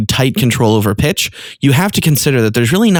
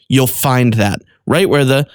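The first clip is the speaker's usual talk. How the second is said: ordinary talk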